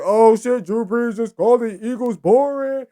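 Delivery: loud, stunned fan outburst; shocked hype reaction. Retold or imitated. Fans loudly shocked at Drew Brees calling the Eagles boring. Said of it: "And everybody's like".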